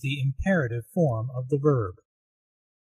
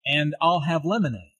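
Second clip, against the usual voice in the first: "I'll" and "lemonade" given extra emphasis; stressed "I'll", then stressed "lemonade", falling at the end. Shown as a demonstration. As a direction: lean on "I'll" and "lemonade" to mark the choice. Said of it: "Notice how she stresses".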